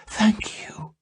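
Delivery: high, whispered thanks; grovelling whisper. A narrator's reading. Salmataya kneeling before Yanti, grovelling whisper. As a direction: grovel on your knees. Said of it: "she grovelled".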